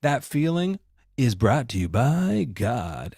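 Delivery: slow, smooth sponsor-read voice; mock ad announcer. Church posing as a sponsor, slow mock ad read. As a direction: sell God like a commercial tagline. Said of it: "then they go".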